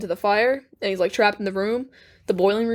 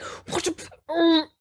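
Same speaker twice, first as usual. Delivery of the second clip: mock startled villain; 7 semitones higher, much slower than usual. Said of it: "And he's all like".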